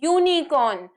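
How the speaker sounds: यूनिकॉर्न spread out as yoo-nee-corn; syllable-by-syllable pronunciation. Shown as a demonstration. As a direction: sound out यूनिकॉर्न for a class, clear "yoo" first. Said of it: "जब हम बोल रहे हैं". (यूनिकॉर्न को "यू-नी-कॉर्न" तोड़कर बोलें)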